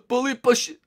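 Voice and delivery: high laughing tease; laughing taunt. Real, not acted. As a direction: giggle the nickname out high.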